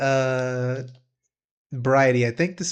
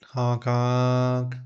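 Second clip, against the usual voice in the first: silly clown; 2 semitones lower than usual. Acted. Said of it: "Happy rag noises".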